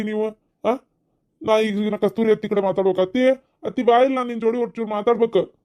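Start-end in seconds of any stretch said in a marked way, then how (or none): 3.0-5.5 calling out. Acted. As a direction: call her out to you. Young man calling aunt.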